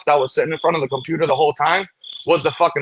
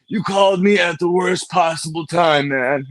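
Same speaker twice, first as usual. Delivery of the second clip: slow, lightly voiced spaced-out hippie; a hint of a dazed hippie, slowed down; stoned hippie; 2 semitones higher, slower than usual. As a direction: drag the words out like a stoned hippie. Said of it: "it was a hippie dude".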